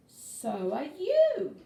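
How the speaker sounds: slow, loud, delighted announcement; excited reveal. A narrator's reading. Unicorns telling Kelp he is one of them, slow loud delight. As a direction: spell it out slowly and proudly.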